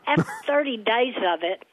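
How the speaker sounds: laughing under the breath; whispered laugh. Real, not acted. Telling the host about her dad, whispered laugh. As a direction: let a laugh slip in a whisper.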